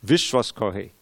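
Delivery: very slow, word by word; slow recitation. Shown as a demonstration. Teacher slowly reciting the definition to students. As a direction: spell the words out slowly. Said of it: "here's the definition of Shraddha".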